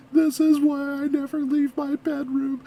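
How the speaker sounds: whimpering pretend sob; mock crying. Reactor imagines fleeing back to the bedroom, mock crying. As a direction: whine it as if crying while running. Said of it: "I would have ran away crying".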